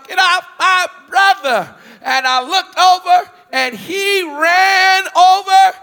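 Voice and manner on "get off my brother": shouted high and loud; little brother's yell. Retold or imitated. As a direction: call out from afar to stop the fight. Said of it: "I heard him yell".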